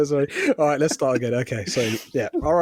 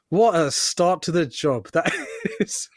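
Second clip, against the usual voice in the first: slow words breaking into laughter; laughing slowly; 3 semitones higher, slower than usual. Retold or imitated. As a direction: chuckle through it slowly. Own thought, laughing.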